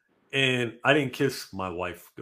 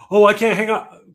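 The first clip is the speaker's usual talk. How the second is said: mock whiny girlfriend; 9 semitones higher, 10 dB louder than usual. Acting out a couple's exchange.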